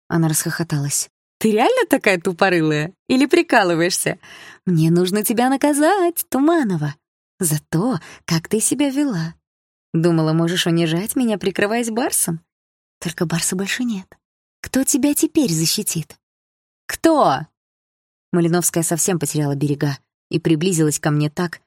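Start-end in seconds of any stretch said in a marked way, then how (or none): 1.4-16.1 put-on higher, sneering bully girl; higher mocking schoolgirl threat; mean girl voice. 16.8-17.4 taunting question. Acted. Bully taunt.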